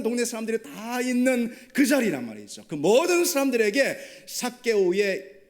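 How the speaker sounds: loud, high, impassioned sermon climax; preaching at full force. Acted. Preacher tells the congregation about Jesus's acceptance, loud and fervent. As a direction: drive the point home to the congregation.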